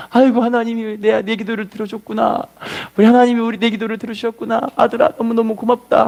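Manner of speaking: lightly acted weepy thanks; tearful gratitude. Mother embracing son as prayer is answered, mildly tearful. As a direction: imitate a mother thanking through tears, understated. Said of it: "아들을 붙잡고 같이 막 울어요".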